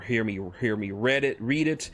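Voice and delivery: plain reading voice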